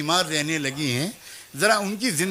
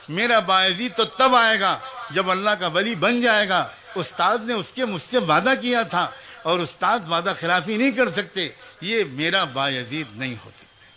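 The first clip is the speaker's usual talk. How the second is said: mother's voice. Acted. Mother behind the door challenging her son, sharp.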